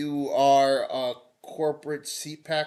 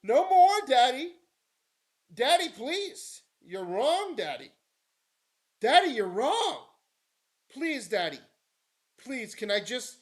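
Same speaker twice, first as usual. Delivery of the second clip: put-on much higher, wheedling little-kid begging; mock whiny pleading; 8 semitones higher than usual. Streamer mocking a fan begging daddy in a whiny high voice. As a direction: whine at daddy like a spoiled child asking for a car. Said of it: "But now I'm saying".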